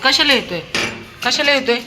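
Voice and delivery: high, loud scolding question. Real, not acted. Scolding dog twice. (चढ्या आवाजात रागावणे)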